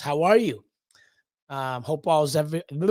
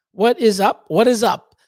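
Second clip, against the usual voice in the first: excited greeting; 4 semitones higher, 6 dB louder than usual. Real, not acted. Greeting a viewer loudly.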